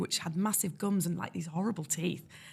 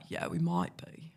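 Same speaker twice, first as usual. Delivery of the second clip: slow, unimpressed southern English reply; drawled, low-key southern English accent; 3 semitones lower, 4 dB quieter, slower than usual. Retold or imitated. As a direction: imitate cool southern English colleagues. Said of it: "they'd be very southern".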